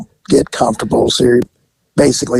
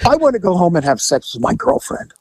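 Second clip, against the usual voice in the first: hammed-up excitement; 6 semitones higher than usual. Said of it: "So I go, I go".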